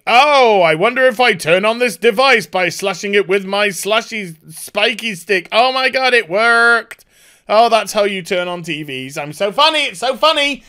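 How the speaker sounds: mock Lion-O. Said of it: "Lion-O just saying".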